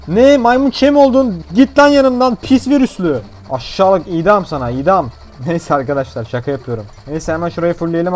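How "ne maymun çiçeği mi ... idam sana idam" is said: disgusted doctor. Pretend. Doctor shouts at monkeypox patient, hammed-up disgust. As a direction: chase the infected patient away.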